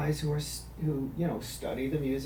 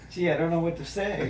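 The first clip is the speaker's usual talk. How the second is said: Donald Duck voice; 2 semitones higher, 3 dB louder than usual. Acted. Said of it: "roast ... in the Donald Duck voice".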